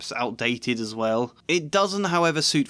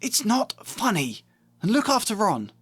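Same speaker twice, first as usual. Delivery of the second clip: scolding mum; 10 semitones higher than usual. Acted. Mum scolding the twins before the train, high and stern. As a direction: tell the twins off firmly.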